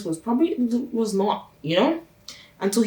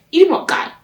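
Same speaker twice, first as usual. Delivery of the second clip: loud high cheer; root for him like a fan; 10 semitones higher, 7 dB louder than usual. Real, not acted. Cheering on Guy in his fight, loud high hype.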